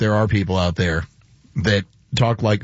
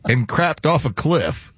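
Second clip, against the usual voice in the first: slow small-town Texas drawl; 3 semitones higher, slower than usual. Retold or imitated. Retelling a coworker's insult in a slow Texas drawl. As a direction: drag it out in a thick Texas accent. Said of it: "to go with the accent".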